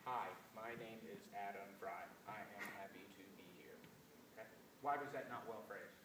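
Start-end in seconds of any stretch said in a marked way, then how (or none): 0.1-3.8 monotone, no shape to the phrase; deliberately unmusical phrasing; flat robotic delivery. Shown as a demonstration. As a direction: read it like a robot, every word even. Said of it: "I'll give you an example".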